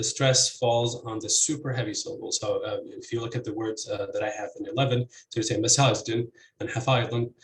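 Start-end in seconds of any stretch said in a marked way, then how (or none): 5.6-7.3 maSAJdin and haFAYdin, second syllables stressed. Shown as a demonstration. Lecturer showing fourth case, masajdin and hafaydin stressed on second syllable. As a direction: hit SAJ in masajdin and FAY in hafaydin. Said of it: "stress here would be on the second".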